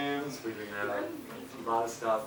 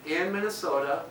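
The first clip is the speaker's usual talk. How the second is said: light Minnesota accent, pitched up; 4 semitones higher than usual. Shown as a demonstration. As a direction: lean into a Minnesota lilt. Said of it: "here's an example of an accent".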